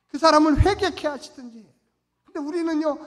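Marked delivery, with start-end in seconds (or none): none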